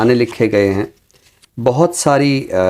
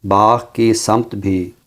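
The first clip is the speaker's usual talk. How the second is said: slow, lingering verse delivery; poem recitation. Acted. Poet finishing his recited couplet on air, slow and lingering. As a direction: draw out each phrase of the couplet.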